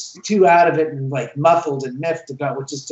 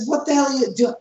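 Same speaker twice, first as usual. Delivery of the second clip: raised, high-pitched mock anger; retold angry demand; 9 semitones higher, faster than usual. To friend Kenny over the flipped chair, mock angry. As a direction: demand an answer, half-joking. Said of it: "and I get upset".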